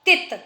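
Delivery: "तित" with a brief i; short vowel in "तित". Shown as a demonstration. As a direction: say "तित" quickly. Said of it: "छोटी आवाज़ आ रही है".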